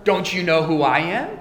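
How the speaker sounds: high, loud and offended; indignant scoffer. Retold or imitated. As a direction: puff yourself up, insulted pride.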